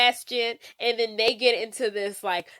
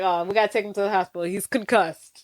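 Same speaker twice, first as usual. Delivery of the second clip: rushed panic; 3 semitones lower, faster than usual. Retold or imitated. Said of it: "He's like".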